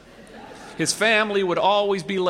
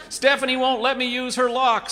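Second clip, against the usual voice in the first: put-on higher, louder tattling boy; whiny kid; 7 semitones higher, 4 dB louder than usual. A narrator's reading. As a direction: complain like a little brother. Boy complaining about sister.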